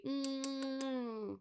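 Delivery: long soft mock-smooching "mm"; soft drawn-out hum into the cup; pretend kiss hum. Host playfully kissing the coffee cup, long pretend smooching hum. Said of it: "I'm kissing my coffee".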